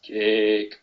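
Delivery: put-on one word in a Geordie accent. Co-host repeating the running joke, Geordie accent. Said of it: "in that kind of Geordie accent".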